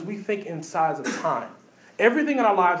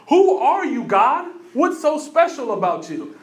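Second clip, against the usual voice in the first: higher, louder challenge; demanding question; 5 semitones higher, 4 dB louder, slower than usual. Retold or imitated. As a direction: call out to God as a crowd. People questioning God.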